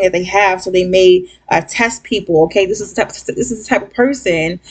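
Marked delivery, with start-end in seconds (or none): 2.7-4.6 stumbling over the words; tripping on the words in a stutter. Real, not acted. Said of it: "I'm stuttering my ass off".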